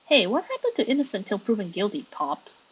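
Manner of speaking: brassy gum smacking floozy; sassy airhead drawling at the judge; bimbo voice. Acted. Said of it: "I'm gonna give you a bimbo voice".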